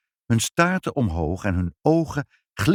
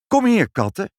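loud, high call; calling the cats; 11 semitones higher, 6 dB louder than usual. A narrator's reading. Mother calls the cats to come. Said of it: "riep moeder".

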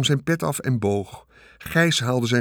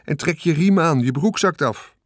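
calling out; 6 semitones higher, 4 dB louder than usual. A narrator's reading. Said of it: "riep mevrouw Hartsuiker".

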